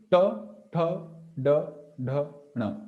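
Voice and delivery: "ta, tha, da, dha, na" with the tongue curled up behind the palate; retroflex demo. Shown as a demonstration. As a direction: recite the retroflex row ta, tha, da, dha, na distinctly. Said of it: "the tongue is touching this point".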